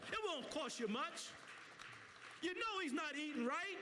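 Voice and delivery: impassioned appeal to the crowd; urgent community sermon; preaching. Real, not acted. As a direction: preach it with feeling, phrase by phrase.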